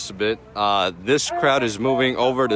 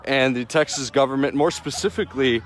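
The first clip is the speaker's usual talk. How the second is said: anchor voice. Pretend. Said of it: "What if I did an anchor voice?".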